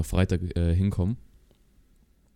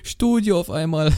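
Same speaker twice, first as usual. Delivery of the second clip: mock shivering; 9 semitones higher, slower than usual. Mocking the cold-voice greeting.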